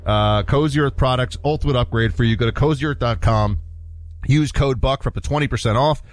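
upbeat host ad read. Acted. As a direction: sell it like a friendly radio spot. Host reads an ad.

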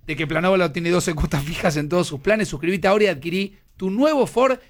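lively live-read sales delivery; upbeat commercial read; radio ad read. Acted. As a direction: pitch it like a radio host's sponsor spot. Reads a radio ad.

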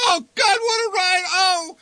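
very high, loud half-sobbing shout; high, loud cry of fear and glee. A narrator's reading. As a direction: yell out terrified and thrilled at once. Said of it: "shouted the old man".

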